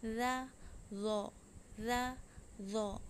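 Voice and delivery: रा thin, रो heavy with a drop in pitch; heavy ra drill. Shown as a demonstration. Teacher contrasting रा and रो for students. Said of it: "मोटा और ऊंचा बोलना है".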